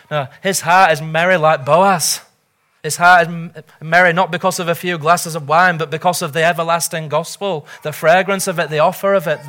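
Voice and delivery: fervent pulpit exhortation; impassioned preaching. Real, not acted. Preacher telling listeners not to stand off from Christ, impassioned. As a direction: plead insistently, driving each phrase home.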